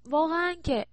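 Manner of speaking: high, affronted exclamation; mock indignation. Daughter scoffs at mother asking about exams, mock indignation. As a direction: scoff at the very question.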